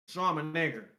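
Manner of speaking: "nigger" said with a hard ER ending; hard-R quote. Retold or imitated. Repeating the offending line to a friend, hard R on "nigger". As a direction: quote it, hitting the final R of "nigger". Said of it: "humor in the hard E R".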